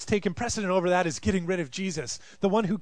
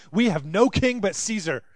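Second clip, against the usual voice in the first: louder, raised pledge with stress on "no"; loud declaration; 3 semitones higher, 5 dB louder than usual. Acted. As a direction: proclaim "We have no king but Caesar" boldly, hitting "no". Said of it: "they say".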